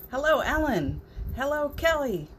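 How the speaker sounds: usual speaking voice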